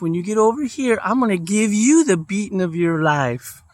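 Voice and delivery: a hint of a tough mother laying down the law; stern mom. Mom threatens son to fight back.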